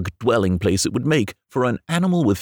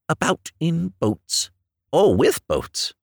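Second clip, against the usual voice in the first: slow, calm and unruffled; composed; 6 semitones higher, slower than usual. Acted. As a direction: carry on serenely. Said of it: "the rat went on composedly".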